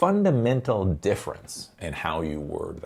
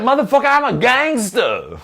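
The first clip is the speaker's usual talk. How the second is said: mock gangster; 12 semitones higher, 5 dB louder than usual. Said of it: "You're like".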